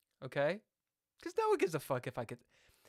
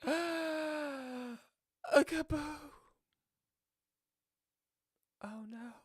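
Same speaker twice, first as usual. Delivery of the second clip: mock opponent; 12 semitones higher, much slower than usual. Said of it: "And then he's like".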